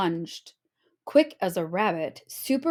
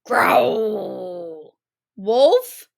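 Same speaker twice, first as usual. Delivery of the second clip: startled cry; 6 dB louder than usual. A narrator's reading. Wolf growls again.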